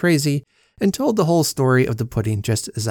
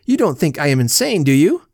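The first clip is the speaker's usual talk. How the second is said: louder indignant question; rising irritation, pushing the question hard; angry; 3 semitones higher, 5 dB louder than usual. Acted. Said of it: "I said angrily".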